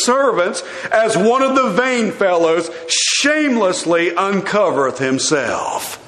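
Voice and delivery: lightly mocking read, a touch of scorn; sarcastic. Michal scornfully mocking King David's dancing, understated sarcasm. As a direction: let the praise drip with mild sarcasm. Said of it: "read this with my sarcastic voice".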